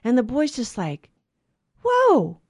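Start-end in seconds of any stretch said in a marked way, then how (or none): 1.8-2.4 high, drawn-out whoa of wonder; amazed. Retold or imitated. Boy hearing his first blessing, amazed. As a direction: act out an awestruck boy, pitch leaping up.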